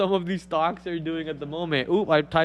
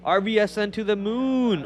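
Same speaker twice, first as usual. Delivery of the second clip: pitched up a little, punchy hype call; hype cheer; 3 semitones higher than usual. Acted. Streamer hyping a stock to chat, mock cheer. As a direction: cheer the ticker on like a fan.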